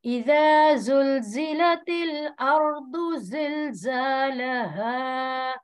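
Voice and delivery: Quran recitation. Acted. Teacher recites the surah herself. (धीमी तिलावत)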